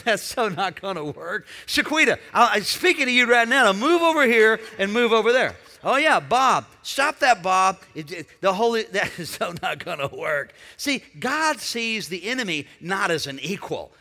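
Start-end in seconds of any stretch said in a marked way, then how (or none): 0.0-10.5 loud, playful voice of God brushing off the devil; God laughing off a silly trick; God's amused voice. Retold or imitated. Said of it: "and God's going".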